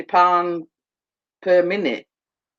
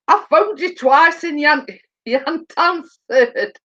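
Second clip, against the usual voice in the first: higher, quoting through giggles; laughing while quoting; 6 semitones higher than usual. Retold or imitated. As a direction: retell his line, breaking into laughter.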